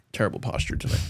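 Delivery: muttered under the breath; whispered aside. Real, not acted. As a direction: whisper it to yourself. Muttered aside mid-sentence.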